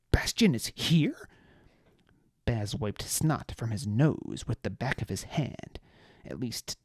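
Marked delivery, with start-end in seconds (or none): 0.1-1.3 hushed, startled question; surprised whisper. A narrator's reading. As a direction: whisper it in disbelief.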